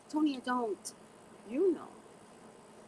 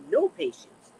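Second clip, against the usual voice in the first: loud and higher, punching no; emphatic; 7 semitones higher, 9 dB louder than usual. Real, not acted. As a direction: hammer it home. Leo pride, emphatic.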